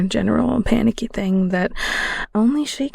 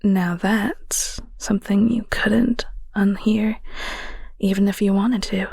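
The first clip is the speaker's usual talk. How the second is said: whispered narration. Acted. Narrator whispering to the listener about a friend.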